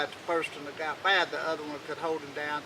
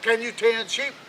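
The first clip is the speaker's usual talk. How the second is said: put-on gruff old king; 6 semitones higher, 5 dB louder than usual. King questions the new hand.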